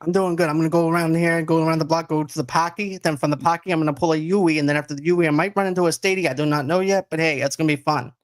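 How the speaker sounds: a light, playful put-on Boston accent full of local slang; hammed-up Boston accent. Podcast host greeting his guest in a mock Boston accent. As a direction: lay on the Boston accent for a laugh, but only lightly. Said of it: "Our Boston accents are intact right now".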